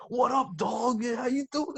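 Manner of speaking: high, hammed-up wannabe cool-guy voice; mock the too-cool actor, high; cool slang lingo. Mocking Edison Chen's performance in a high put-on voice. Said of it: "Edison Chen's performance".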